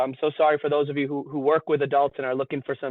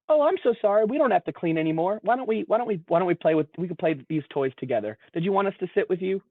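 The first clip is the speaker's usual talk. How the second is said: placating; 4 semitones higher than usual. Retold or imitated. Therapist placating the whining child.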